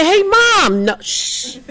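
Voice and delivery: high, loud urgent hush; hushing mom. Retold or imitated. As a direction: shush your mother before she gives you away.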